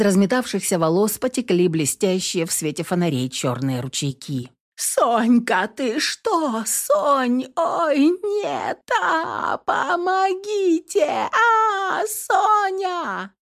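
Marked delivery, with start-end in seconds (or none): 4.7-13.3 much higher, crying screams for help; hysterical screaming. A narrator's reading. Girl screaming for her fallen friend, hysterical. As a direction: wail in panic for your friend.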